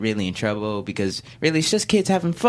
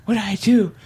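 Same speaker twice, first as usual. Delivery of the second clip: put-on childish voice; 5 semitones higher than usual. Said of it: "In my young, childish voice".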